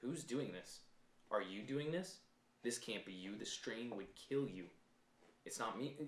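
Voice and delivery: calm Kylo. Retold or imitated. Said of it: "He literally says".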